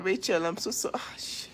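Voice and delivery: real stunned whisper, voice dropping away; hushed gasp of real shock. Real, not acted. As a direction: whisper it in disbelief at the news. Shocked reading of a loss.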